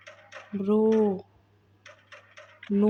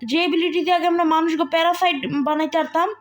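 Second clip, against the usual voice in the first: excited rant; 4 semitones higher than usual. Real, not acted. Plot twist rant, high and loud.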